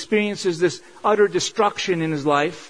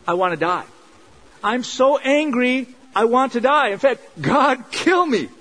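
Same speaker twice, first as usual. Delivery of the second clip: angry despair; 5 semitones higher than usual. Retold or imitated. Jonah angry enough to beg God to kill him, higher anguished outburst. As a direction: cry out that you would rather die. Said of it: "Jonah says".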